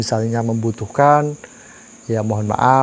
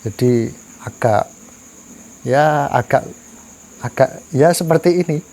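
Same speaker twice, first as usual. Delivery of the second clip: talking around a cigarette; cigarette in mouth; 3 semitones higher than usual. Real, not acted. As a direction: speak with a cigarette between your lips. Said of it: "Mohon maaf saya rokokan".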